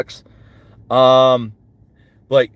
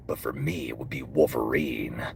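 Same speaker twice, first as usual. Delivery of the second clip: deep, gravelly growl, much lower; Wolverine; 13 semitones lower, 11 dB quieter than usual. Acted. Voice actor showing off to chat, deep Wolverine growl. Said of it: "he's so deep and gravelly".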